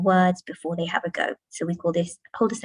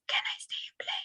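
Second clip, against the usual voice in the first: unvoiced whispered sentence; 12 dB quieter than usual. Shown as a demonstration. Teacher whispering the sentence for children to echo. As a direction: whisper it to the class. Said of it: "We might say it in a whisper voice".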